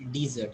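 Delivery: "dessert" with a long ee first vowel and a Z; dessert pronunciation. Shown as a demonstration. Teacher confirming a student's answer, dessert pronunciation. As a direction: say "dessert" as dee-ZERT. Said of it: "How you pronounce it?".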